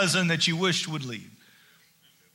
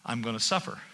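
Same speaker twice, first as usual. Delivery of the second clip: much lower, softer, quick; a quiet grave warning; Jesus foretelling softly; 9 semitones lower, 8 dB quieter, faster than usual. Acted. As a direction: speak it hushed and solemn. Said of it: "Jesus immediately began to tell them".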